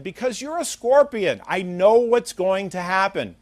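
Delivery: acted, high-pitched objection; wary protest. Frog voiced, wary of the scorpion.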